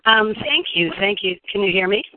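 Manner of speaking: hoarse, worn-out voice; voice giving out. Real, not acted. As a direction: talk through a nearly gone voice. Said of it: "My voice is almost gone".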